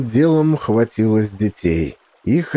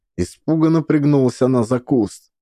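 ordinary delivery, nothing marked

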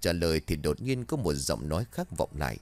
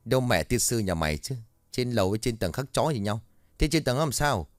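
put-on guard losing patience with the stammering boy; exasperated guard; 3 semitones higher than usual. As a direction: curse him out in frustration.

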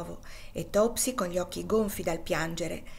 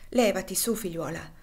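soft voice. Acted. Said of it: "disse con voce soave Miss Ophelia".

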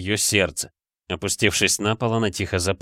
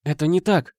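heated denial; 9 semitones higher than usual. A narrator's reading. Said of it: "горячо возразила она".

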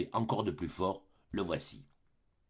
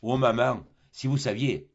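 breathless emotion; 4 dB louder than usual. Acted. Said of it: "dans tout l'essoufflement d'une grande émotion".

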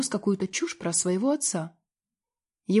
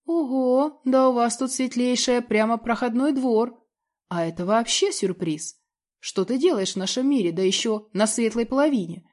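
demon voice; 3 semitones higher, 3 dB louder than usual. Acted. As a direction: play a cheeky caught demon. Demon speaks to caught demon.

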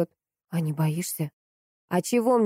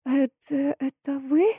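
frightened babble; 8 semitones higher, slower than usual. A narrator's reading. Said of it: "пролепетала Анна".

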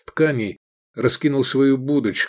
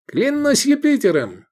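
exclaiming; 14 semitones higher, 3 dB louder than usual. Acted. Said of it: "воскликнул Эдик".

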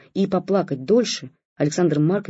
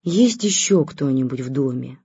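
exhaled sigh; 3 semitones lower than usual. Acted. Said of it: "выдохнул врач".

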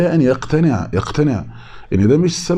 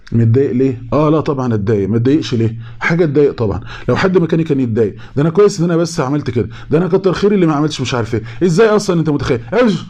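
1 mock indignant justification; 4 semitones higher, faster than usual. Mock self-justifying person.

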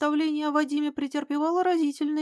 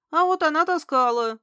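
emphatic, a notch higher and louder; expressive; 5 semitones higher, 6 dB louder than usual. Acted. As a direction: lean on it with meaning. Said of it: "выразительно сказал он". (выразительно, с нажимом)

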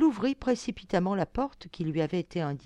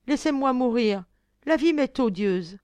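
loud despairing wail, higher; sobbing cry; 5 semitones higher, 7 dB louder than usual. Acted. Blondine, sobbing, begs to die after seeing her friends' skins. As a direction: cry out through sobs, wanting to die. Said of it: "sanglotante, elle s'écria".

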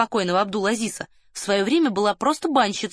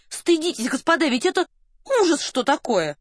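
high-pitched, scandalised protest; indignant exclamation; 7 semitones higher than usual. A narrator's reading. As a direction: exclaim it as a shocked reproach. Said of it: "а Варя воскликнула". (возмущённо, высоким голосом)

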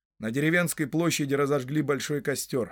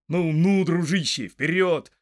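hearty louder call, a bit higher; urging on; 4 semitones higher, 6 dB louder, slower than usual. Acted. Rider to his rearing pony, urging it on. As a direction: spur a friend forward.

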